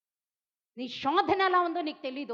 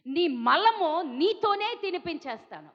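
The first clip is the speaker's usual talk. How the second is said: arrogant boast; 4 semitones lower than usual. Retold or imitated. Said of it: "ఎంత విర్రవీగుతున్నాడో".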